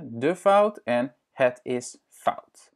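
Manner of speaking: de fout and het is fout said slowly, "fowt" each time; teacher repeats both forms for the learner; slow Dutch model. Shown as a demonstration. Slow, careful Dutch model. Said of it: "un adjectif et un substantif".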